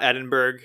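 "Edinburgh" with a hard g, rhyming with iceberg; mispronounced Edinburgh. Shown as a demonstration. Podcaster showing listeners the wrong pronunciation, Edinburgh ending in "berg". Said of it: "It's not Edinburgh".

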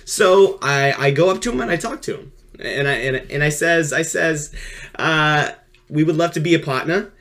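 mild sports commentator voice. Acted. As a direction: call it like a sportscaster. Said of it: "I'm just gonna do my sports commentator voice".

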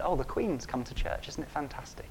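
soft, politely hushed announcement; the Queen arriving, told softly and politely. Shown as a demonstration. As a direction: say it with quiet good manners. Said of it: "in a very polite way".

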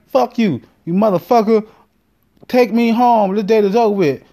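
she's done with him, spit it out; mock angry date. Date ending the date in the car, high mock fury.

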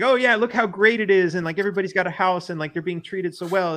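mock enthusiasm. Retelling Australian news spin on quarantine camps, mock enthusiasm. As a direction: mimic a cheery sales pitch.

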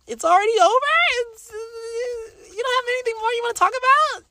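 very high, loud whine of mock dismay; whiny complaining listener. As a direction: squeal it like a crushed, whining fan. Mocking whiny disappointed podcast listener.

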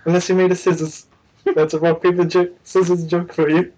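lightly voiced friendly alien; a hint of put-on New Zealand accent; Korg. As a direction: do an easygoing joker's impression. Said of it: "I can do a pretty good Korg".

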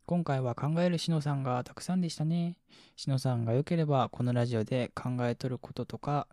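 slightly lifted, polite message-reading voice; コメント読み上げ. Acted. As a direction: read a listener's long message out fluently. (お便りを丁寧に読み上げる調子)

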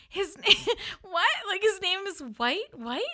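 high, loud incredulous laugh-question; can't believe what she's hearing; laughing disbelief. Retold or imitated. To the family about the name, laughing high disbelief.

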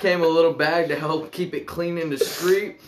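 smooth product pitch, selling hard; sleazy salesman. Acted. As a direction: read it like a pushy salesman. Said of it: "Put on your good salesman voice".

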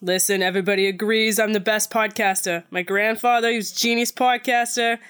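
put-on slipping into a New York accent. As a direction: put on some New York in your speech. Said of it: "that went really New York".

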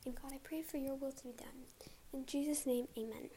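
breathless, soft prayer ending; out of breath. Real, not acted. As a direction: speak winded, short of air. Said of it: "sorry, I was out of breath".

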